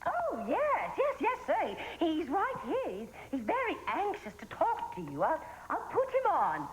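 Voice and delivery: high, singsong mock Swedish accent; put-on Swedish accent. Fake camp worker handing the boy to his father, put-on Swedish accent. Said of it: "You sound funny with that accent".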